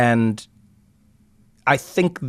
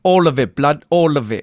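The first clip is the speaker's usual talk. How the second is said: brash London slang, a touch louder; mock London roadman; 3 semitones higher, 4 dB louder than usual. Joking with his co-host in a put-on London accent.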